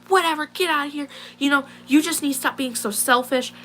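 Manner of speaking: high-pitched mock scolding; imitated angry dismissal.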